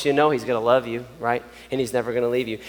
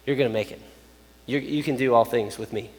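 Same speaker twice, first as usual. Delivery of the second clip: softly voiced reassurance; comforting; 3 semitones lower, 3 dB quieter than usual. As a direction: gently encourage someone who is struggling. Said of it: "he will begin to comfort you".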